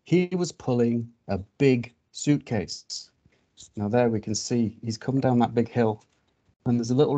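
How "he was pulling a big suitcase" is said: slow, measured picture-book reading; story narration. A narrator's reading. Reader telling children of a strange animal arriving, storytelling. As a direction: read it slowly to small children, pausing on each detail.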